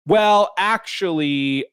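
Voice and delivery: slow, drawn-out pedantic "well, actually"; mock a smug correction, stretching it; pedantic know-it-all. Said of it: "a couple people replied with".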